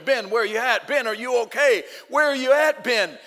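high, loud panicked calling of a name; retold frantic scream. Father yelling for his son after the crash, frantic shout. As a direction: shout for the missing boy in a wrecked car. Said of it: "I'm screaming".

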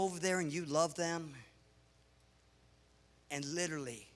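low, soft, with long pauses; hushed and sincere; tender. Real, not acted. Preacher telling church about children given no affection, tender.

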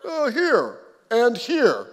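slow, drawn-out little boy's whimper, lightly voiced; a hint of a hurt toddler pointing to his head; small child. Toddler son answering father.

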